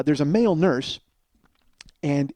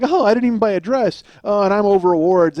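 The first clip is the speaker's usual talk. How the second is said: higher, louder send-up of an actress; flippant mock joking; 4 semitones higher, 5 dB louder than usual. Actress joking to an awards audience, flippant and mocking. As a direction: imitate a self-satisfied star joking with the crowd. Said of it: "laughing and inappropriately joking".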